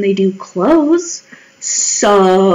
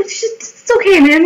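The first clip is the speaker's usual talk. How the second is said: imitated reassurance; 8 semitones higher than usual. Her own reassuring reply.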